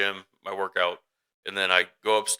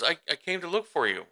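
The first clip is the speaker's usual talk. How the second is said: lightly voiced child, higher pitch; child's reply; 9 semitones higher than usual. Mother quoting her daughter found in the lobby, lightly voiced child's reply. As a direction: imitate a small daughter answering, pitched up.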